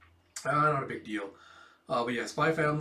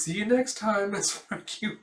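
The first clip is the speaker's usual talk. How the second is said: haughty lady; 7 semitones higher than usual. Acted. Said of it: "And she goes".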